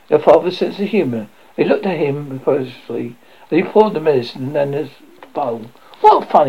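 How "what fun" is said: high, louder, uncertain exclamation; a touch of doubt in the fun; doubtful. A narrator's reading. Father trying to pass off his joke, doubtfully. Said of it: "he said doubtfully".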